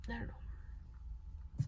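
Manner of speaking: barely audible, slow murmur; quiet, at a loss. Real, not acted. Survivor pausing after saying it's not their fault, quietly at a loss. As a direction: let it out slowly on a breath.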